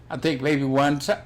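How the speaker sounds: hiccuping mid-sentence; hiccups. Real, not acted. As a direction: talk through the hiccups. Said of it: "damn, I got the hiccups".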